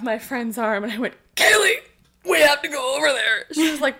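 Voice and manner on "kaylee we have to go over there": high, loud eager call; excited. Retold or imitated. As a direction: urgently pull a friend along. Grabbing friend, excited call.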